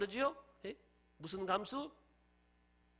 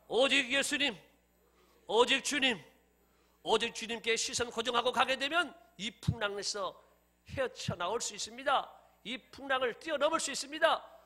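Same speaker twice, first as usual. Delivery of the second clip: raised, emphatic preaching voice; 5 semitones higher, 6 dB louder than usual. Acted. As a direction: urge the congregation with firm conviction. (힘주어 선포하는 설교)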